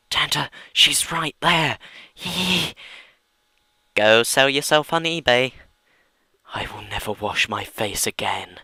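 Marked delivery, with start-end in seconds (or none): 0.1-5.5 high, loud jeer; loud taunt. Acted. Fan taunting someone about Riley, shouting. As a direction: shout the insult.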